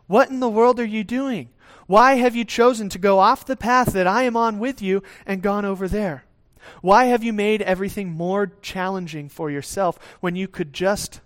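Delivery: a disappointed parent asking why you wandered off. Pretend. God questioning the wanderer.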